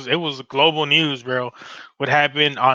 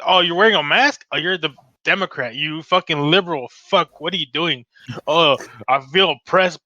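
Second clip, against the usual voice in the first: mocking anti-masker. Anti-masker whining at a mask wearer, mocking. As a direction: sneer it like an offended anti-masker. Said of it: "who fucking thinks".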